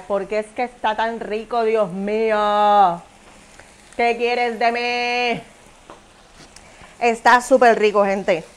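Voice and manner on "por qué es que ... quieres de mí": swooning. Real, not acted. Swooning over the taste.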